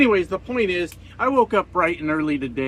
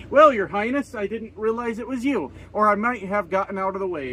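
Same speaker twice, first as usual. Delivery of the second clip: sarcastic mock deference; 4 semitones higher than usual. Trucker mocking the driver who honked, sarcastic. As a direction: sneer it like a fake courtier.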